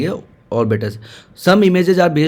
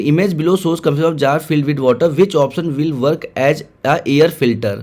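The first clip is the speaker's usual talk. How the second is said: reads the question out word by word, very slowly; teacher dictating a test question; slow question reading; much slower than usual. Acted. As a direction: spell out the exam question slowly for students.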